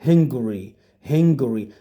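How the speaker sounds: "Hungary" in three syllables, HUNG-guh-ree; correct pronunciation. Shown as a demonstration. Teacher shows students how this word is pronounced, correct pronunciation of Hungary. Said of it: "But this is Hungary".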